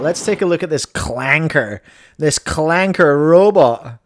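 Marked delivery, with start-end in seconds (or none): 2.2-4.0 mock disdain. Mocking the robot.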